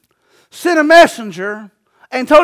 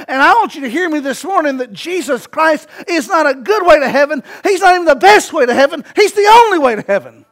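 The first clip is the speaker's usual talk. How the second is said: emphatic preaching; 3 dB louder than usual. Real, not acted. Preacher telling the congregation about salvation, emphatic preaching. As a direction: hammer each point harder to a climax.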